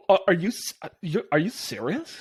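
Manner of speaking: put-on a light Valley Girl whine, not overdone. Quick demo for a co-host of his Valley Girl, lightly voiced. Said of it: "I thought you had the Valley Girl down".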